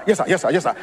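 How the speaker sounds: lightly voiced driver, just humoring the boss; driver's offhand yes sir. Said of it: "driver voiced in story".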